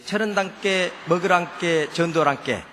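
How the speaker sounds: relaxed Jeolla speech, 께 just falling out naturally; Jeolla dialect. Shown as a demonstration. Preacher shows his home Jeolla way of talking, relaxed Jeolla accent. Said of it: "우리 전라도 말은 편안하게 나온 대로".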